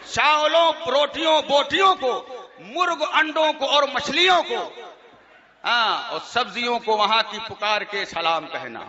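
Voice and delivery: reciting absurd verses to an amused crowd; mock poem recitation. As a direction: rattle off the list in verse, amused. Recites mocked salaam verses.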